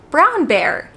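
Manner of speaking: plain American pronunciation, slowed down; imitating a parent's American-accented correction. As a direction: model it slowly in an American accent. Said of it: "you could just say".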